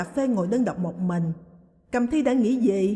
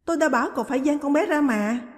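fretful blame; 6 semitones higher, 3 dB louder than usual. A narrator's reading. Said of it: "trút hết bực dọc lo lắng vào Trình".

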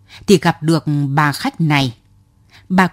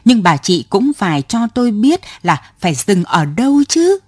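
exasperated sigh; 3 semitones higher than usual. Acted. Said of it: "Ông thở ra".

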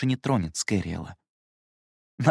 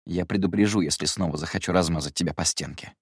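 dismissive; 3 semitones lower than usual. Acted. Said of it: "пренебрежительно проговорил".

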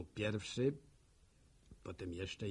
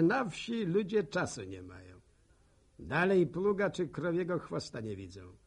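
high, loud, singing scorn; mocking exclamation; 6 semitones higher, 5 dB louder than usual. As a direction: scoff loudly at what people say. Monolog, ironiczne cytowanie ludzi. (głośne, wysokie przedrzeźnianie)

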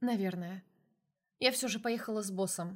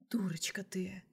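a soft, sighing whispered reproach; 3 dB quieter, slower than usual. A narrator's reading. Boss sighs over his foolish secretary, whispering. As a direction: breathe it out with a fond sigh. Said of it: "вздохнул он".

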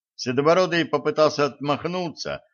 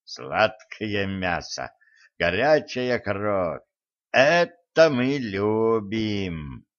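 hungry spirit voice; much slower than usual. Acted. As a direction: relish each word like a hungry ghost. Spirit savouring its prey.

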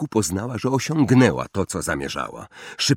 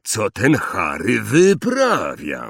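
Hagrid muttering; slower than usual. Acted. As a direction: mumble it to yourself, baffled. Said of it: "mruknął Hagrid".

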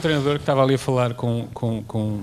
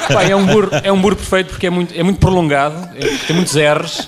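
laughing; 4 semitones higher, 5 dB louder than usual. Real, not acted. Laughing about the word burro.

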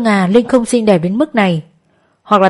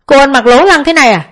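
high, loud furious scolding; loud yell; 7 semitones higher, 4 dB louder than usual. A narrator's reading. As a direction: yell at the sister, finger in her face. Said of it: "chỉ tay vào mặt quát lớn". (quát lớn giận dữ)

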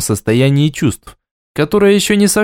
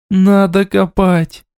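growling; 6 semitones higher, much slower than usual. A narrator's reading. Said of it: "прорычала взбешённая и уязвлённая Аймара".

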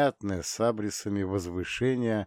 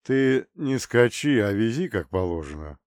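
grumbling; 3 dB louder than usual. Acted. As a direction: grumble at the driver. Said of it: "проворчал Понтарчук".

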